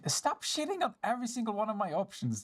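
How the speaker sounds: high exasperated complaint; exasperated whine. Real, not acted. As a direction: whine it out, fed up. Player exasperated at game.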